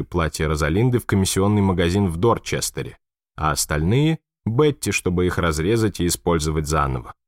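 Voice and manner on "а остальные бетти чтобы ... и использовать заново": usual speaking voice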